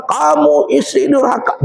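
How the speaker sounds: high, slow, hands-on-hips accusation; mock scolding husband. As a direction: play the smug husband lecturing his wife. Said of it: "berkacak pinggang".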